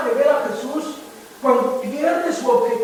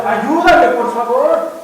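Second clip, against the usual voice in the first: desperate plea; 7 dB louder, slower than usual. Retold or imitated. Pedro sinking, crying out loudly to Jesus. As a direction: beg as if drowning. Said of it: "le pide al Señor Jesús".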